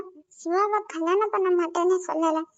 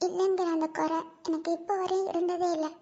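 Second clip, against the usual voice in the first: sad private lament; 5 dB quieter than usual. Acted. Talks alone to dead parents.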